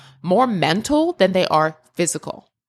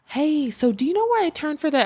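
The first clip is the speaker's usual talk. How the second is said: higher, lightly mocking question; mimicking a lost skier; 8 semitones higher than usual. Strangers ask the crying skier for directions, mock high voice. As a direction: play a clueless stranger asking the way.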